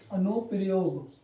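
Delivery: drawn-out word, falling at the end; slow dictation. Real, not acted. Teacher writing out a heading for students, slow dictation. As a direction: say it slowly as you write it out.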